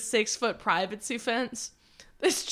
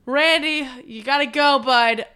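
louder, mock-urgent calling through the house; calling out for Randy; 2 semitones higher, 6 dB louder than usual. Friends walking the house calling for Randy, louder. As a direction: call out to hunt down a guest.

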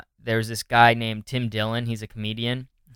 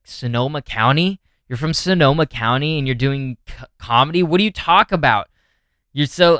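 mock rant; 4 semitones higher, 4 dB louder than usual.

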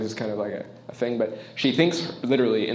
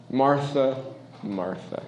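gentle repeat; slower than usual. Shown as a demonstration. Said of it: "he says it like that".

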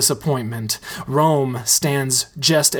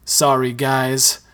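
choked up; slower than usual. Acted. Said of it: "Mike chokes".

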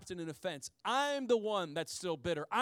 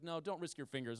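mock warning wife; 4 semitones lower, 7 dB quieter than usual. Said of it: "She's like".

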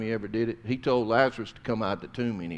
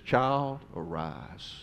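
tender command; 6 dB quieter, much slower than usual. Acted. Jesus raises the girl, quoted.

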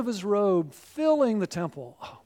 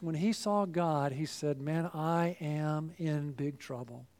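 much softer, lower, drawn out; hushed and low; 6 semitones lower, 9 dB quieter than usual. Acted. Preacher voicing Isaiah's dread, hushed and low. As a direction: drop to a near hush in dread. Quiet retelling of Isaiah's fear.

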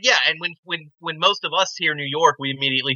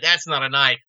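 slow ending, lightly imitated Australian accent; deliberate movie threat with Australian accent; Australian killer; slower than usual. Quoting killer cornering backpackers, understated Australian accent. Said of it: "Australian serial killer in the outback".

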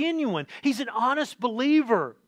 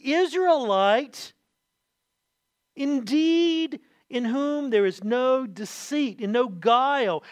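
louder, slow, emphatic proclamation; Jesus calling out to the crowd, loud and slow; loud declaration; 3 semitones higher, slower than usual. Retold or imitated. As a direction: declare it slowly for all to hear. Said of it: "and he says this loudly".

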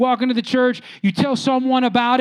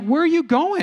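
puzzled friend; 5 semitones higher than usual. Retold or imitated. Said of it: "I remember him saying".

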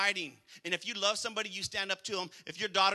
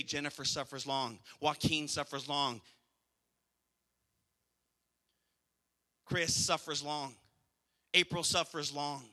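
slow name reading; 6 semitones lower, 7 dB quieter than usual. Shown as a demonstration. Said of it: "put your name there".

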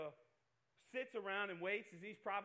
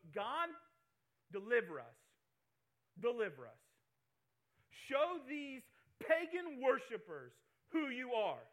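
pleading prayer; 4 dB louder than usual. Pretend. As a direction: plead with authority. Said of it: "falls on his knees and goes".

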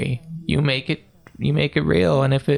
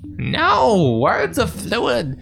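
put-on cranky old hermit; 5 semitones higher than usual. Holds the old hermit figure.

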